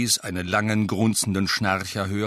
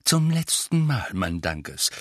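exasperated call; slower than usual. Acted. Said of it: "rief Misses Weasley".

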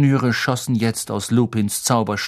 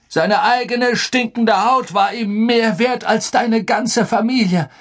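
enraged outburst; 6 semitones higher than usual. Acted. Sirius rages to Harry about Pettigrew, furious. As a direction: rail against the vile traitor.

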